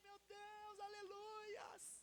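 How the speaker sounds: very high, squealing, drawn-out church cry.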